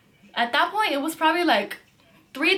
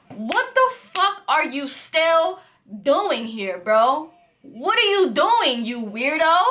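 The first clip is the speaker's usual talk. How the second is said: retold angry yell; 3 semitones higher, 3 dB louder, slower than usual. Retold confrontation with creepy stranger.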